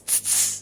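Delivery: short unvoiced tss clicks; tss sounds. Shown as a demonstration. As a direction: spit out soft tss, tss. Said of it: "I was saying tss".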